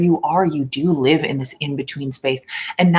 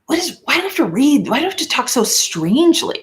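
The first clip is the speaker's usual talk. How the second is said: much higher, exasperated at her own voice; mock yourself for sounding strange; high-pitched cringing complaint; whiny self-mockery; 10 semitones higher than usual. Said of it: "and was like".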